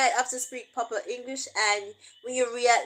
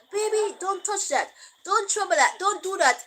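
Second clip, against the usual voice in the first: soft English warning; 6 semitones higher than usual. Retold or imitated. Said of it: "Him laugh after me".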